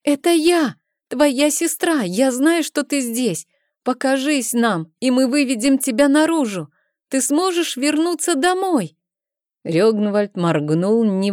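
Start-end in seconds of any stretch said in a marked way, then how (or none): 0.0-9.0 sister shouting. A narrator's reading. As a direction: call him out, desperate and eager.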